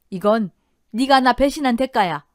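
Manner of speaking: accusing, forceful wife; angry reckoning. Acted. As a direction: spit out the verdict between blows. Enraged wife hitting her husband.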